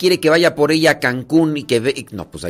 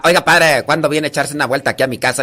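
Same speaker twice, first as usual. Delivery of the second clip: quick Tarimoro comadre inviting the priest; imitated Tarimoro village speech; lightly put-on Tarimoro accent; faster than usual. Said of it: "la de Tarimoro se habla así".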